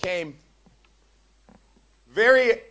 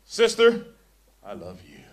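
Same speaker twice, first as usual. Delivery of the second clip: mock sensual line; 9 semitones lower, 7 dB louder than usual. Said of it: "things you do not say".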